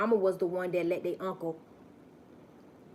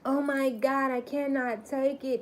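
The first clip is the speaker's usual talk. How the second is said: mock anguish; 6 semitones higher than usual. Imitating tormented enemies.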